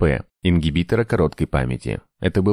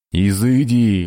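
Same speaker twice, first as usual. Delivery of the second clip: higher, drawn-out exorcising cry; roaring; 4 semitones higher, 4 dB louder, much slower than usual. A narrator's reading. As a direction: roar it to drive a demon off. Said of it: "взревел Гес". (взревев)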